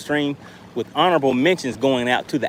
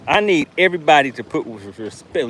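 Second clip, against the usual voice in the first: stutter. Real, not acted. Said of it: "Look, I'm stuttering now".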